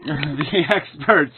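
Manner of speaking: slow, mocking repeat of the phrase; scornful echo; sarcastic. Real, not acted. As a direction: drag out the experts with contempt. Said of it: "another great word".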